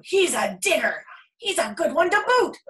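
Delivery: loud, rising pirate yell; pirate yelling to his crew. A narrator's reading. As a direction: shout the news back to the ship. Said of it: "yelled back at his crew".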